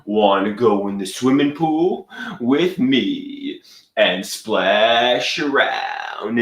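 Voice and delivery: Brooklyn come-on, stretching the last words; fake Brooklyn accent. Inviting a supermodel to swim, fake Brooklyn accent. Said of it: "I'm putting on a fake Brooklyn accent".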